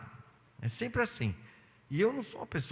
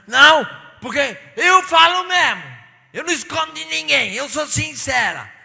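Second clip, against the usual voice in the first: mock sister; 12 semitones higher, 14 dB louder than usual. The blunt church sister shouts her sincerity. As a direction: boast bluntness at full blast. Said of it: "Aí a irmã chegou numa reunião".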